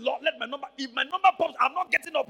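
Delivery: loud, eager plea; excited prayer. Retold or imitated. Preacher willing his number to pop, loud eager plea.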